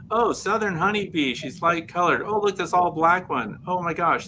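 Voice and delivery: mock excited discovery; excited guess. Imitating a beekeeper guessing bee breeds.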